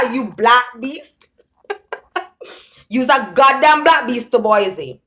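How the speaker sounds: mock insult with giggles; laughing tease. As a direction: tease a friend through laughter. Henry teasing Boise, laughing.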